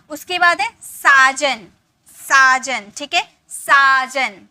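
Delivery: साजन with the आ held long and slow. Shown as a demonstration. Teacher showing the class the long आ in साजन, drawn out. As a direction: lean into the आ of साजन, slowly. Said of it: "आ की मात्रा है".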